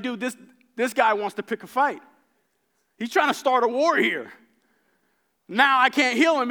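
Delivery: upset king. Retold or imitated. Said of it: "And he gets upset".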